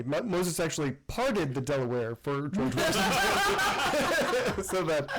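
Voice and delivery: giggling through the words; laughing; laughing while talking. Real, not acted. Reading funny chat comment, laughing.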